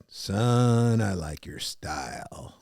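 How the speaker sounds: low, slow approving drawl; deep, slow approval from a mentor; old mentor voice. Retold or imitated. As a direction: drop low like a wise old man. Voicing Zig Ziglar.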